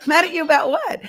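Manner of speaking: high, loud incredulous question, rising at the end; amused disbelief. Retold or imitated. Retelling her reply to a worried uncle, amused disbelief. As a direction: repeat it as a baffled retort. Repeats retold baffled reply.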